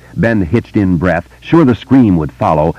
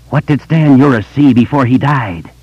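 high monster taunt, pitched up; screaming vampire; 7 semitones higher than usual. A narrator's reading. Vampire screaming down at Ben, high taunting screech. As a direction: scream the question down mockingly. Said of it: "The vampire on the landing screamed down at him".

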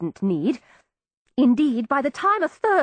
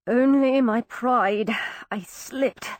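slow, pained and breathless; pained panting; slower than usual. Acted. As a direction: push the words out through pain. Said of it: "such pain panted in his voice".

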